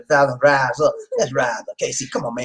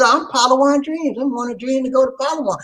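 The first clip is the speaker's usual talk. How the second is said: reading a listener's message; 10 semitones higher than usual. Retold or imitated. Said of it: "But she says".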